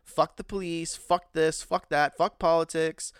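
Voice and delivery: angry mock rant. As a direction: mimic people raging at everything. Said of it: "People are like".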